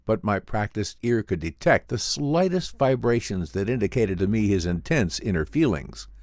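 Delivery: plain reading voice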